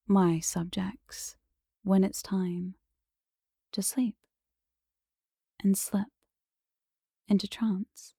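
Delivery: slow, whispery hypnotist delivery with long pauses; hypnotic lulling. Shown as a demonstration. Hypnotist telling subjects it is time to sleep, lulling. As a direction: lull them gradually into trance.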